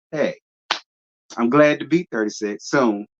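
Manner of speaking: ordinary talk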